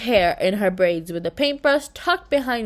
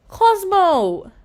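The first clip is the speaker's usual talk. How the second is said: higher and louder, thrilled; overjoyed; 9 semitones higher, 5 dB louder than usual. A narrator's reading. Girl finding her lost slime pet, overjoyed cry. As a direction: burst out with relief and joy.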